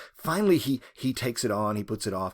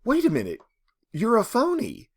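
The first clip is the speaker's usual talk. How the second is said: shocked woman; 8 semitones higher than usual. Retold or imitated. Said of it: "begins to react and say".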